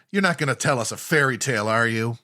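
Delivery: light Canadian accent on the line. Shown as a demonstration. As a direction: say it with a hint of Canadian. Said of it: "comments about our Canadian accents".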